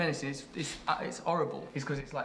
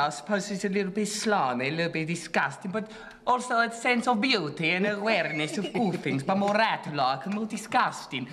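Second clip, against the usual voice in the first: hammed-up low-life Italian accent, lively pitch; 3 semitones higher than usual. Shown as a demonstration. Performing on the director's request, low-life Italian accent. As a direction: put on a slimy Italian accent. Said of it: "do your low-life Italian accent".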